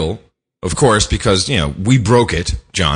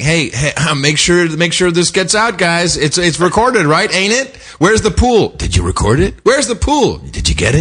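lightly acted, higher-pitched prompting; imitated president, telegraphing; 6 semitones higher than usual. President making sure the press records it, mock pointed prompting. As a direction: lightly mimic someone pointedly tipping people off. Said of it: "he's almost, like, telegraphing, like, saying".

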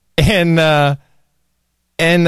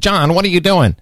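first try at Mimi; 4 semitones higher than usual. Retold or imitated. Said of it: "I'm sorry, she doesn't talk like that".

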